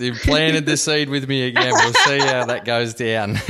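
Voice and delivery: chuckling through the words; laughing. Real, not acted. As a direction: talk while laughing warmly. Host laughing at the joke.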